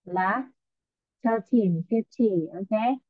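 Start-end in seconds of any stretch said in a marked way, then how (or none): 1.2-3.0 slow, careful number reading; slow model reading. Shown as a demonstration. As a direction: read the prices slowly so each number is clear. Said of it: "hai cái đáp án dễ gây nhầm lẫn". (đọc chậm, rõ từng con số để phân biệt)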